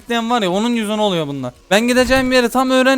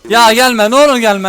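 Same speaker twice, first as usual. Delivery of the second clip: louder, begging it to stay away; loud pleading; 7 dB louder than usual. Real, not acted. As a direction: shout the plea, panicky. Begging enemy not to come. (yüksek sesle yalvarma)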